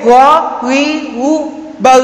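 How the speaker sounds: "ba" with a continuing gargled gh at the end; flowing ghain. Shown as a demonstration. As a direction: let the ghain after "ba" run on. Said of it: "Masih berjalan".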